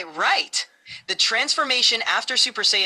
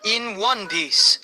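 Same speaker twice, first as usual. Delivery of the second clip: deep dramatic voice. Acted. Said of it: "In a deep, dramatic voice".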